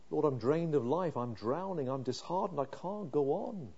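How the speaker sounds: a mild, understated lament; quiet despair. Acted. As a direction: let the words sink, drained. Psalmist's despair voiced.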